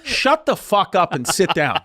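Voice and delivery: slow, laughing put-down; amused, retelling the attendant's order; laughing through a quote. Retold or imitated. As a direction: retell the attendant's snap while cracking up. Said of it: "She goes".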